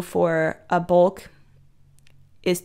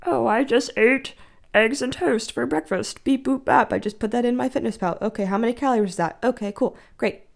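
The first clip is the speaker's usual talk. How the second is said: casual inner voice; 4 semitones higher than usual. Retold or imitated.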